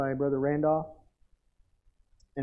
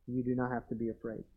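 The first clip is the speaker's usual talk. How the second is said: confident reassurance; 2 semitones lower, 8 dB quieter, faster than usual. Shown as a demonstration. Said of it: "I can say this with confidence".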